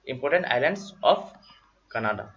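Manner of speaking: slow, word by word, for note-taking; slow dictation. Shown as a demonstration. Tutor dictating a heading to students, slow and drawn out. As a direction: spell the heading out slowly so they can write.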